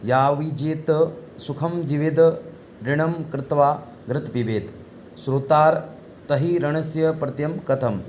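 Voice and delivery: measured chanting of a shloka, each phrase set apart; Sanskrit verse recitation. Acted. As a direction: recite the verse like a teacher reading scripture. Recites Sanskrit verse before translating.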